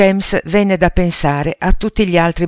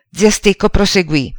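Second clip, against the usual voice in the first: plain reading voice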